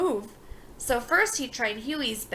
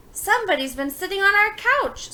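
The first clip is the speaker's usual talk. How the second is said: amazed; 8 semitones higher, 7 dB louder than usual. A narrator's reading. Boys discover intruder, amazed.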